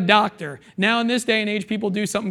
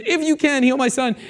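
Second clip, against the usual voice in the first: pleading father; 5 semitones higher than usual. Retold or imitated.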